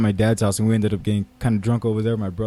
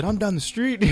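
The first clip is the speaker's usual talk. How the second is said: recorded voice; 9 semitones higher, 4 dB quieter than usual. Retold or imitated. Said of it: "a button that said".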